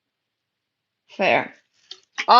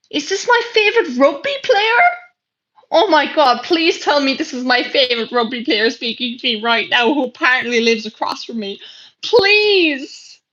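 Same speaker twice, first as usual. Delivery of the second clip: excited fan plea; 3 semitones higher than usual. Acted. Gushing over possible favorite rugby player in chat.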